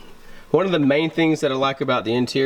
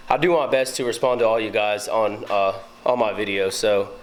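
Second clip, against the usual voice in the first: breathless, catching breath. Real, not acted. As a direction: talk while short of breath. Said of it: "I'm out of breath for some reason".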